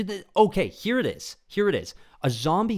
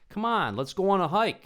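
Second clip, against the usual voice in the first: lightly voiced eager jock, higher; reckless movie teen; 12 semitones higher, 5 dB louder than usual. Horror movie opening, jock urging friend onto the hike, lightly voiced. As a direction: chirp it like a careless horror victim. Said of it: "they're like".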